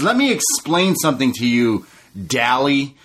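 imitating MJF. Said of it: "He says".

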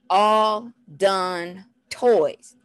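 very slow, word by word; deliberate, drawn-out toddler instruction; slow teaching phrase. Shown as a demonstration. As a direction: space out each word for a toddler.

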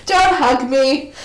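laughing plea while crying; teary laughing plea. Real, not acted. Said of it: "I'm gonna cry more".

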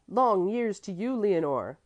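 loud, slow joyful cry; boy cheering his friend, loud and slow; cried out. A narrator's reading. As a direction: call it out with glee. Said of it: "Bruno cried".

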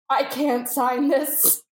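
very slow, drawn-out refusal; mock emotional. Prank victim refusing to sign for producers, mock tearful. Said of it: "a very emotional Oscar-winning moment".

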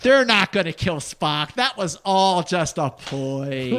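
loud, sarcastic wonder at the trick; mock amazement. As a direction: ham up being fooled.

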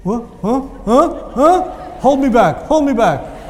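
young man at sports flaring up, mock aggressive; hothead picking a fight. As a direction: play the hothead spoiling for a fight. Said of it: "somebody looks at you and goes".

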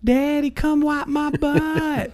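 put-on very high, slow little kid's call; imitating his toddler. Dad imitating his toddler son calling for help, very high and drawn out. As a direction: whine it out like a three-year-old. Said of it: "he'll be like".

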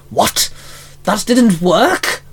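high, slow, baffled snarl; monster's bark. Acted. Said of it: "the hyena Fangire barked".

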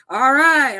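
high, loud retold outburst; mock shout. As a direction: call it out like an irritated man. Acts out Rick confronting the hippies.

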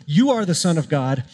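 preacher voicing a disciple's rising, fervent pledge; fervent proclamation. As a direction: proclaim it with mounting devotion. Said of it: "what Peter is proclaiming in this moment".

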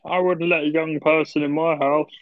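slow put-on voice of a fussy old man; mocking impression. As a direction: parody him as a grumpy elder. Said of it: "Luke showing his age".

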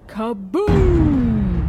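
loud, drawn-out boom; explosive exclamation. Acted. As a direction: burst out like a firework going off. Narrator voices the fireworks blast.

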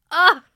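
short, high, very loud "Ah!"; sudden loud yelp of excitement; excited squeal. Real, not acted. Reacting to a question about laughing and giggling, excited squeal.

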